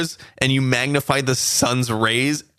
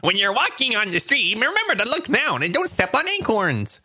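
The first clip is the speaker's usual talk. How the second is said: high squeaky squirrel, much higher; 10 semitones higher than usual. Pretend. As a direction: play a chirpy little squirrel giving advice. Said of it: "I am a squirrel".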